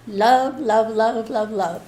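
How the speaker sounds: mildly hammering, tapering off; imitated insistent repetition. Wife mimicking a guide pounding it into her head, insistent. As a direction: retell a nagging guide's repeated word. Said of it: "he's always pounding in my head".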